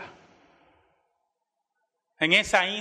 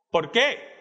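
mildly startled retold question, higher pitch; surprised; 7 semitones higher, 3 dB louder than usual. Missionary hears they won't go to the hospital, surprised. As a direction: imitate a man taken aback, voice lifted. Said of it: "pregunta él sorprendido".

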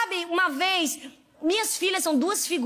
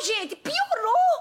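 laughing; 7 semitones higher, much slower than usual. Real, not acted. Laughing at Gideon's cowardice.

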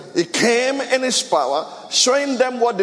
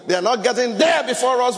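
raised, higher preaching shout; emphatic shout; 4 semitones higher than usual. Real, not acted. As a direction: hammer the point home. Emphatic sermon point.

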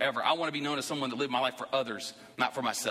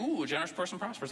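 mock greedy reading; 4 semitones higher, 3 dB quieter than usual. Preacher mocks reading the verse for riches, greedy and sly. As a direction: read "a generous person prospers" like someone hoping to get rich. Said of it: "you can take this and say".

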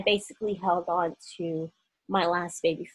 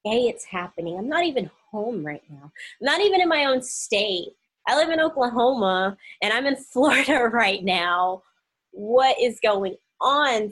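freaking out; 4 semitones higher, 6 dB louder than usual. Retold or imitated. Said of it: "I was freaking out".

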